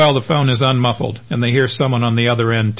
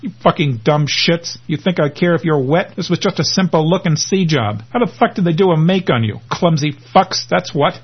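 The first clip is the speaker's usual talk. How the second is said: higher, scornful tirade; angry boss; 5 semitones higher than usual. Acted. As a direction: berate them with contempt. Boss berates his men.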